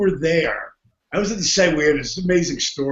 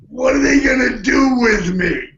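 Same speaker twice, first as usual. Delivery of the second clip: worried outburst; 6 semitones higher than usual. Retold or imitated. Retelling his own worry.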